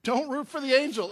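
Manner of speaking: loud mock warning about the game; joking warning shout. Shown as a demonstration. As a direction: call it out like a warning. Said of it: "Oh, sorry".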